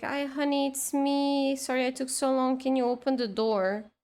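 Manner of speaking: pretend mom. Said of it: "made herself pass as the mom".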